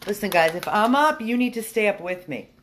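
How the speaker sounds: loud mock lecture to dogs; mock stern lecture. Real, not acted. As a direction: lay down the law to the dogs playfully.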